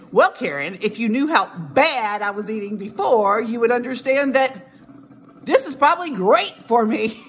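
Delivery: rising sassy comeback to a critic, voice going up at the end; sassy retort. Retold or imitated. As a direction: talk back with sass. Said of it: "I'm just gonna use that name".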